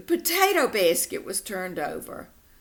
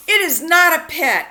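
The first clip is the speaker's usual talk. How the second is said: higher, much louder protest; yelling back; 8 semitones higher, 10 dB louder than usual. Acted. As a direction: shout it back in defence. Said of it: "I yelled back".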